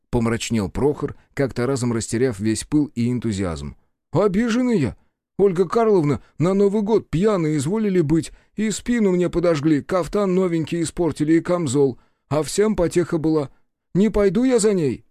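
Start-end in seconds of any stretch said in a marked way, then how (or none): 4.1-15.0 high, loud, sullen refusal; sulky secretary. A narrator's reading. Secretary refuses his master, high and sulky. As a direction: dig in, refusing.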